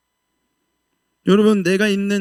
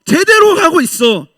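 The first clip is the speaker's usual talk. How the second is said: high, loud, tearful proclamation; impassioned cry; 8 semitones higher, 4 dB louder than usual. Retold or imitated. God's kingdom calling to weary young believers, loud and tearful. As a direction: cry out with a breaking voice to spur the faithful. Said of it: "하나님의 나라가 우리에게 말해주는 거야".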